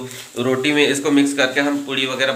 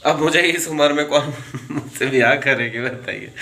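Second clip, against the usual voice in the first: mock plea with a chuckle; jokey question, giggling partway; joking. Real, not acted. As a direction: break into a laugh midway. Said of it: "ये सब तो मजाक था".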